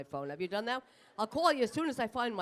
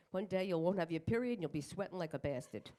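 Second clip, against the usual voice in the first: ordinary talk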